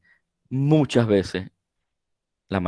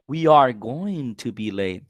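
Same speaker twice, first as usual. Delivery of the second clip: We are going to be late, slow and every word separate; careful textbook version; slow full form. Shown as a demonstration. Teacher contrasts full form with the gonna version. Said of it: "Está contraído por todas partes".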